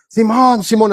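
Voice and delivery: pretend-cross calling of a name; mock angry. Shown as a demonstration. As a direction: demonstrate an angry tone, briefly. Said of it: "así enojado".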